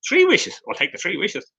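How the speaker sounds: mock pondering, as if tempted by an offer; musing wisher. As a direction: pitch jumps up on "three wishes", then drops soft. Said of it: "And you're thinking".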